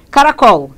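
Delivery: Caracol said loudly, stressed on final COL; stress on last syllable. Shown as a demonstration. Teacher pointing out the tonic syllable, Caracol stressed on COL. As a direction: put the weight on COL in Caracol. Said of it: "A sílaba tônica tá aqui".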